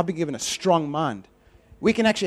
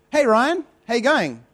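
cheery prophet; 5 semitones higher, 3 dB louder than usual. Retold or imitated. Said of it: "Phones me".

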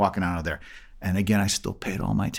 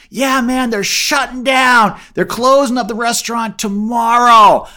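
higher, louder hurried caller; caller with bad news; 10 semitones higher, 9 dB louder, slower than usual. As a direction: deliver the closing news loudly. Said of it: "I get the call".

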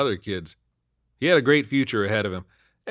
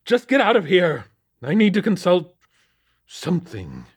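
put-on high, loud, scolding old boss; gruff captain; 10 semitones higher, 7 dB louder than usual. A narrator's reading. Captain scolding Lakely about Hellsport beat, loud and high. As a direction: bark at the rookie.

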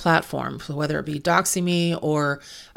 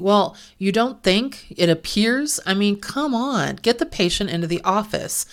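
exasperated, higher-pitched challenge; frustrated; 4 semitones higher than usual. Real, not acted. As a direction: throw the doubtful words back in exasperation. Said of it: "can't hear my frustration in my voice".

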